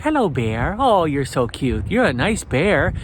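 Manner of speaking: slow, gentle sweet-talk to a bear; soft kind voice. Shown as a demonstration. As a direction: coax the bear calmly and slowly. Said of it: "talk to the bear in a soft, kind voice".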